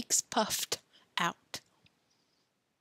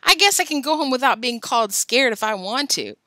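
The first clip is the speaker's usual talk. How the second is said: yelling; 4 semitones higher, 5 dB louder than usual. Acted. Joe yelling back.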